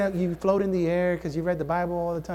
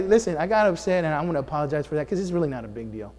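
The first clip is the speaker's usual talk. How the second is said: controlled apology; 4 semitones lower, faster than usual. Shown as a demonstration. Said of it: "This is more controlled".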